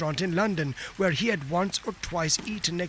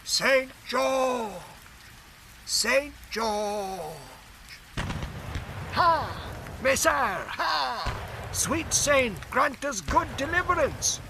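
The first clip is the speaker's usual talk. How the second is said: high, slowed battle cries from a phantom army; hammed-up medieval war shout; shouting host; 7 semitones higher, slower than usual. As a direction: cry to the saint as ghostly archers. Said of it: "thousands shouting".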